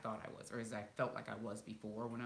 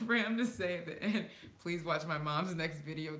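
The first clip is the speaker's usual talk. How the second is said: laughing while retelling; 5 semitones higher, 7 dB louder than usual. Real, not acted. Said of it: "I got a real kick out of him".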